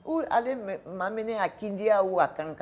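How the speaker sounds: high, fast, insistent refusal; panicked no, quick and high; frantic protest. Retold or imitated. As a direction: pitch up and rush the protest. She protests against leaving.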